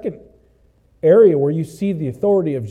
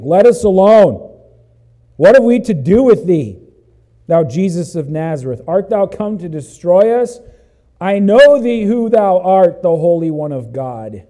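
crying out loud, in a demon's voice; a demon shouting at Jesus, loud; 8 dB louder than usual. Acted. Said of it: "cried out with a loud voice".

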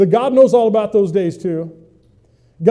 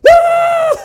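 frustrated yell; 4 dB louder than usual. Retold or imitated. Pastor swamped by ringing phone.

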